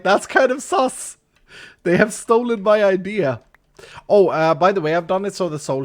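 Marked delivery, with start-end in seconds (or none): 0.0-3.4 elephant voice. Pretend. Voicing an elephant.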